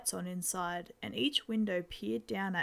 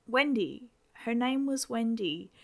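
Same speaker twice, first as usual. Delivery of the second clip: louder, lightly voiced father; a father rattling on over breakfast; chatty dad; 3 semitones higher, 3 dB louder than usual. Dad names the dead girl.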